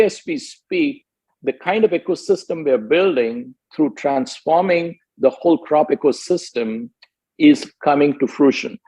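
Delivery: ordinary delivery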